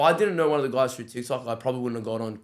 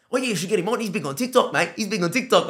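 dad voice; 9 semitones higher, 6 dB louder than usual. Retold or imitated. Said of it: "And my dad's like".

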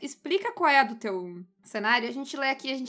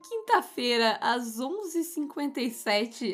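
puzzled NSA agent. Retold or imitated. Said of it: "Eu tô imaginando o agente da N S A".

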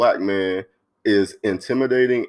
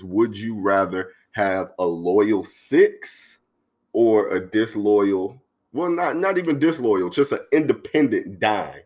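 slow emphatic question; slower than usual. Shown as a demonstration. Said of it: "posing the episode question, slowly".

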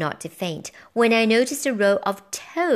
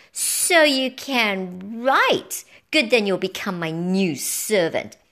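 witch voice; 4 dB louder, slower than usual. Acted. Witch speaks to mouse.

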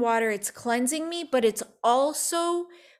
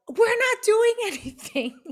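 much higher, giggling through the words; laughing denial; 11 semitones higher than usual. Retold or imitated. The girls in the back seat telling Mike it's not them, giggling. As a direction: deny it while cracking up.

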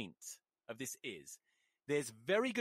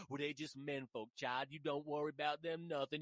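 softer, lower folksy mama; lightly voiced mama; 3 semitones lower, 5 dB quieter than usual. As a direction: soothe a child in a mock folksy voice. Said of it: "why I did that voice".

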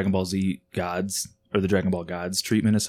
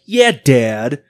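put-on sheepish kid voice; 5 semitones higher, 9 dB louder than usual. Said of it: "And I was like".

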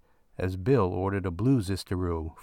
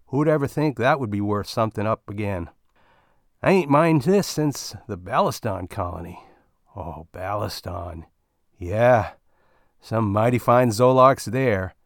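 put-on old miner, louder, relishing the memory; old miner fondly recalling Baliston; reminiscing old miner; 5 dB louder than usual. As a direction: savor the old days. Bill reminiscing about old colony.

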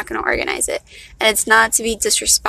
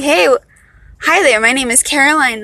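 chirpy introduction, louder at the start; mock formal greeting; 3 semitones higher, 5 dB louder than usual. Speaker showing how she won't greet friends, mock formal. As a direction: play a formal hello, lightly exaggerated. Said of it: "I ain't gonna be all formal".

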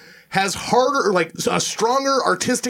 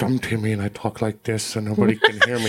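mocking Timmy; 7 semitones lower than usual. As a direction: imitate a mousy voice nobody can hear. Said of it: "You're not talking like a man".

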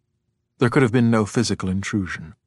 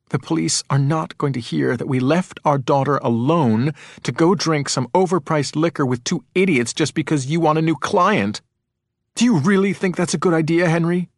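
heated, higher-pitched scolding; angry retort; 6 semitones higher than usual. A narrator's reading. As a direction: argue back indignantly at your husband. Wife argues back at raging husband.

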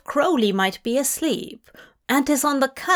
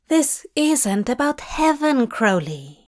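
earnest protest; 4 semitones higher than usual. Acted. Aziraphale tries to reply.

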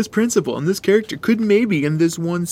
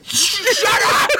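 surprised. Pretend. Shocked reaction to joke.

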